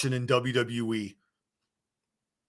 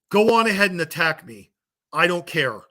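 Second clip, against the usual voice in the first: defiant; 4 semitones higher, 4 dB louder than usual. Real, not acted. Defiant challenge to critics.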